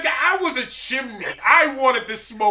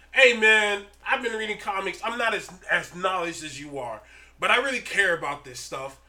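respectful; 4 semitones lower, 4 dB quieter than usual. Retold or imitated. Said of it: "came back at me with more respect".

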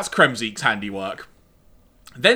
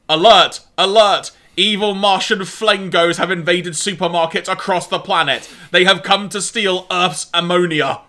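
computer alarm voice; 5 dB louder than usual. Retold or imitated. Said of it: "the following dialogue starts occurring".

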